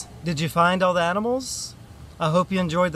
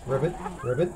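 frog croak; 4 dB quieter, much faster than usual. Pretend. Quiz on frog sound.

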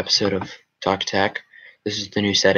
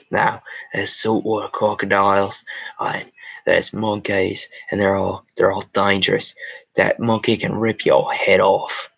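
put-on Aussie wildlife presenter voice; mock Australian documentary host; Australian accent. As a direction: warn of danger in a broad Australian accent. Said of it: "They say Australia".

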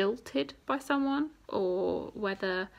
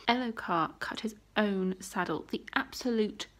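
usual speaking voice

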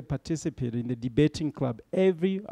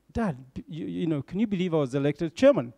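retold boyish excitement, lifting on chairman; mildly excited, stumbling into the news; 2 semitones higher than usual. Son telling his father of being elected chairman, mildly excited. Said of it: "And very excited".

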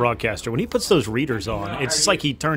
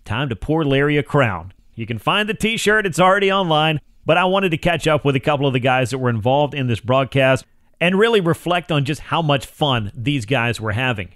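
projected presenter read with punched names; crisp radio host setup; sports radio monologue; 4 semitones higher, 5 dB louder than usual. Acted. Host setting up the Francoeur interview for listeners, radio read.

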